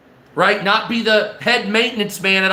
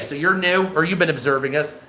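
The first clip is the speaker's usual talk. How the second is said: ordinary talk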